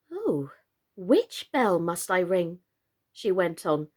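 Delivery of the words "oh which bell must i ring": puzzled. Acted. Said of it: "very much puzzled by the names".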